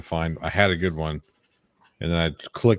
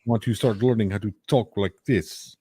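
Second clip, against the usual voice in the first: mock Russian accent. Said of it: "uh, Russian accent".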